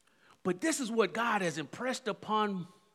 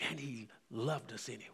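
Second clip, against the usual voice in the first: sudden soft, quick drop; softer, quick tender close; quiet; 9 semitones lower, 13 dB quieter, faster than usual. Acted. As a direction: pull back to a hush. Sudden drop after climax.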